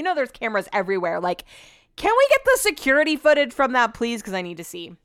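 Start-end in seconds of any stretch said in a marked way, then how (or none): 2.0-4.2 higher, insistent plea; raised-pitch nosy demand; mock pleading. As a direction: beg with exaggerated urgency. Mock plea to see footage.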